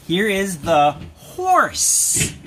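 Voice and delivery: slow, spaced-out naming; name it slowly for a small child; drawn-out recap; slow teaching. Shown as a demonstration. Teaching animal names slowly to toddler.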